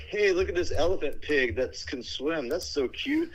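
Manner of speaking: hammed-up cutesy coo; cooing tourist voice. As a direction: gush over the animal like a naive tourist. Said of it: "they're like".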